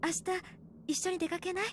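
soft, tender persuading; gentle coaxing. Acted. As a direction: coax her out softly. Mother coaxing daughter gently.

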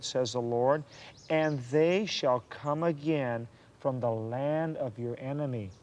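slow, lifted reading of the Lord's words; slow scripture reading. Acted. Mary comforting Missus Joslin with Jeremiah, slow solemn reading. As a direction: lift each promise slowly, like scripture. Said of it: "Look what Jeremiah thirty-one says".

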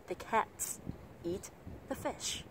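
CATS, EAT, FISH stressed, "the" small and short; weak "the". Shown as a demonstration. Teacher modelling reduced articles, three spaced beats. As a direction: tuck each "the" in before the strong word. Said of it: "các bạn sẽ đọc nhỏ đi".

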